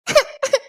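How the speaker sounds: high-pitched sobs; crying without words; sobbing. Acted. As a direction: break into short tearful sobs. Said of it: "ஏன்டி அழுகுற?".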